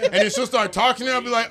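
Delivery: usual speaking voice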